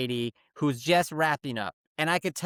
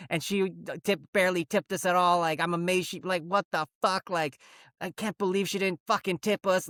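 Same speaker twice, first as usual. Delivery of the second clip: acted angry trash talk; 4 semitones higher than usual. Two haircutters trash-talking the customer who just left, mock indignant. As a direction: retell their griping, going hard. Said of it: "fucking going hard on".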